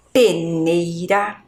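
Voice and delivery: peneira said slowly with a light tapped R; slow, syllable-by-syllable peneira; weak R. Shown as a demonstration. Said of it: "eu falo um R fraco".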